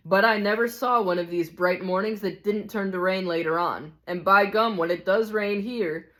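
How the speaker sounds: lightly voiced cynic, relishing bad news; emphatic know-it-all with a touch of scorn; hard-bitten ghost. Ghost warning narrator about the rain, lightly voiced cynicism.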